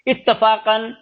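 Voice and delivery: اتفاقاً said slowly with a clear "an" ending; slowed-down example word. Shown as a demonstration. Teacher showing students the tanween sound, slow and clear. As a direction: draw out اتفاقاً so the final "an" sound rings. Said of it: "جو زبر لگ رہا ہے".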